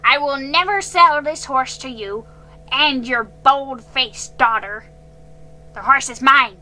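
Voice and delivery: put-on old man refusing to sell, threatening the girl; furious ordering. A narrator's reading. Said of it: "he ordered".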